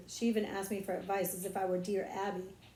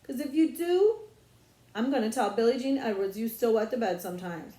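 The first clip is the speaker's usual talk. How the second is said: loud threat; 5 dB louder than usual. Acted. Brother blackmails little sister.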